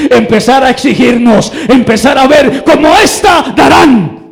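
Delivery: shouted high and loud, pressing the church; preaching at full force. Acted. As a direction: rouse the congregation with a cry. Predicación a plena fuerza. (predicación gritada, alta y fuerte)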